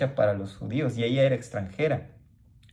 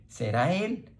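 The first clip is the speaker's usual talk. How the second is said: higher, hushed astonished question; amazed wondering; 6 semitones higher, slower than usual. Retold or imitated. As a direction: ask it like a stunned onlooker. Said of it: "o sea, del cual habíamos de estar esperando". (asombro suave y agudo)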